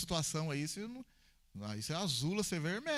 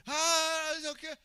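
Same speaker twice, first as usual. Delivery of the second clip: high, loud burst of annoyance; agitated retort; 11 semitones higher, 6 dB louder, slower than usual. Retold or imitated. Imitating the agitated young man answering the pastor. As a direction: blurt it out, high and louder.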